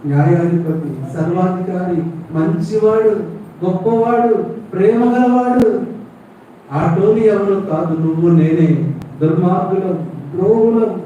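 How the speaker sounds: high, loud, climbing sermon cry; preaching at full force. Acted. Preacher telling the congregation Jesus died for them, at full force. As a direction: build the altar call to a roar.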